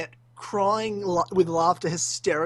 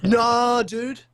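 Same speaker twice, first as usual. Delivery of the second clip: emphatic refusal; 5 semitones higher, 6 dB louder than usual. Retold or imitated. Retold emphatic refusal to friend.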